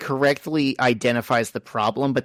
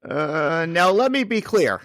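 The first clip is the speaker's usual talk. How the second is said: politician voice, measured and high; slow presidential politician cadence; Barack Obama; 5 semitones higher than usual. Acted. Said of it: "How's that for a politician voice?".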